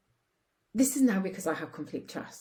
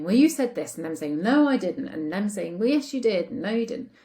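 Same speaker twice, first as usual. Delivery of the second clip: louder back-and-forth bickering; mock quarrel; 2 semitones higher, 6 dB louder than usual. Couple arguing over who said what, mock bickering. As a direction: argue both sides of a petty spat. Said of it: "no point in you saying".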